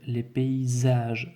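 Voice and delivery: paysages with a buzzing Z, slowly; S pronounced as Z. Shown as a demonstration. Teacher showing pupils the S in paysages, voiced like zèbre. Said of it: "prononcer mon S comme un Z".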